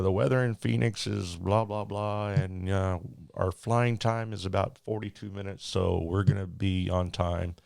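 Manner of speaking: loud pilot announcement to the cabin; captain's PA voice. Retold or imitated. Captain telling passengers about the delay, in a PA voice. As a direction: play the captain on the intercom, hammed up.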